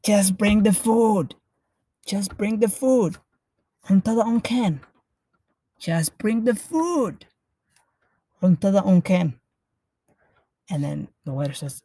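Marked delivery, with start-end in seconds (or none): 0.0-9.4 fed-up husband. Acted. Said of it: "He's just like".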